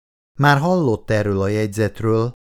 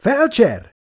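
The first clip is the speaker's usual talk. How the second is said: high, urgent cry for help; urgent raised-voice summons; calling out; 12 semitones higher, 4 dB louder than usual. A narrator's reading. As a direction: shout for the medic, pitch leaping up. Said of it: "kiáltott Mára Marosi".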